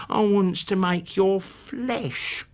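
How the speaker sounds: put-on slow, breathy, whining boy; fat boy's whine. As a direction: drag it out like a gloating lazy boy. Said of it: "The fat boy's whine".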